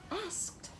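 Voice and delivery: asked with the ending T sound stressed; exaggerated word endings. Shown as a demonstration. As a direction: say "asked" leaning on the final T. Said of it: "when you say".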